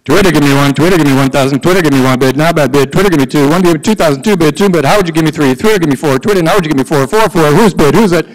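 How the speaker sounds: rapid auctioneer patter. Shown as a demonstration. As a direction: rattle off bids like an auction. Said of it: "I'm going to talk fast like an auctioneer".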